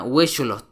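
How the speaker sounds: "huecholot" starting on a we sound; no H in "huecholot", weh-sho-lot; silent H. Shown as a demonstration. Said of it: "La letra H es muda".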